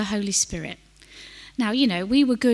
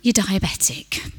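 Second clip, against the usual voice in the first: quietly. Retold or imitated. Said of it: "we said quietly".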